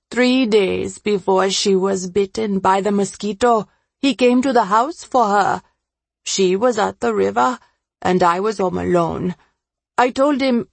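troubled confessor, rising at moments; understated agitation as the confession comes out; lightly voiced Ravi.

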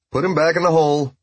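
high, loud order to the guards. Acted. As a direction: call it out to the guards, commanding. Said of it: "He raised his voice to the guards".

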